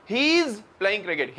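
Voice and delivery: slow British-style "He is playing cricket" with "he is" run together; British English. Shown as a demonstration. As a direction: say it slowly the British way, blending "He is". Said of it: "British कह रहे हैं". (अंग्रेज़ी लहजे में धीमे-धीमे)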